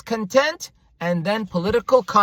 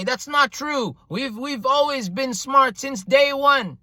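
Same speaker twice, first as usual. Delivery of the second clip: higher, indignant mock of a regime loyalist; mocking pro-government voice; 4 semitones higher than usual. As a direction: scoff at the historian as a government supporter would. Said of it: "Why did he just talk like this".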